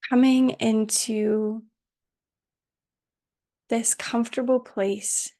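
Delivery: calm, unhurried meditation voice with long pauses; guided meditation. Acted. Teacher settling students into Yoga Nidra, calm guided meditation. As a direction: guide them gently into rest, leaving space between phrases.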